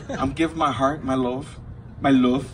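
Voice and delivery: put-on a touch of a Spanish accent; weird Spanish accent. Offering love to the crowd, slight Spanish accent. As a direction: slip lightly into a mock Spanish accent. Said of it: "that little weird accent I just did".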